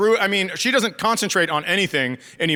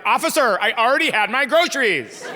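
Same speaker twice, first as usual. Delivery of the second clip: high, indignant excuse to a cop; imitating a clueless driver's appeal; mock pleading driver; 5 semitones higher than usual. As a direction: protest innocence in a raised pitch. Mock excuse to police officer.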